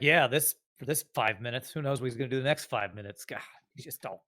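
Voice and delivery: mildly exasperated, fading into a sigh; exasperated Rev. Acted. Rev answers about his volatile friend, mildly exasperated. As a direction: play mild frustration, dropping off at the end. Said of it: "Pulling out his hair and stuff".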